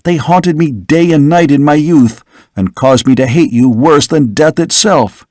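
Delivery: a hint of outraged young man; indignant son.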